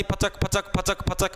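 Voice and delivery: rapid-fire mouthed shot noises; imitated gunshots. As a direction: mimic repeated gunshots with the mouth. Imitating gunfire in the story. (गोलियां चलने की नकली आवाज़)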